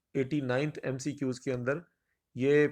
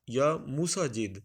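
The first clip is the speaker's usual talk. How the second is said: slow option reading; much slower than usual. Shown as a demonstration. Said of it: "درست لفظ جو ہے یہ مسجد".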